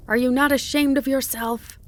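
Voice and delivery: high, loud indignant accusation; outraged reproach. A narrator's reading. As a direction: cry it out at the peak of fury. Climax of fox's angry tirade.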